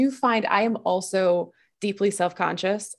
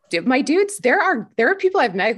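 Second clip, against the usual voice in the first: excited; 5 semitones higher, 4 dB louder than usual. Real, not acted. An emphatic address to the listeners.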